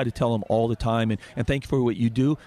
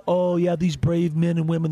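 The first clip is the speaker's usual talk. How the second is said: higher, mocking fake praise; mock pandering; 5 semitones higher than usual. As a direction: imitate leaders gushing insincerely. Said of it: "they pander to the rank and file".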